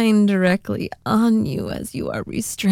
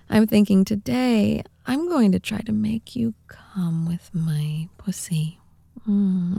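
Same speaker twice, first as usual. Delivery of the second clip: whispering. Acted. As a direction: whisper close to the mic. Whispered roleplay throughout.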